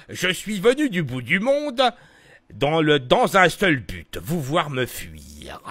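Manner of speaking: vieux savant chevrotant qui ralentit; voix du professeur Farnsworth. Shown as a demonstration. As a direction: vieillard avec un dentier. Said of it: "je le travaille en Uber Fansworth". (voix de vieux savant)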